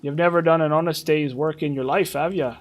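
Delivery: hammed-up Celtic brogue with a sneer; Brynjolf's brogue. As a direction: ham up a jovial Celtic rogue. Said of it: "That's what he sounds like".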